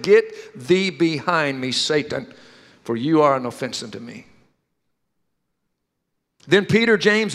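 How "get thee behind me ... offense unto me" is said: stern rebuke. Retold or imitated. Jesus rebuking Peter to his face, low and stern. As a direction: drop the voice and rebuke him.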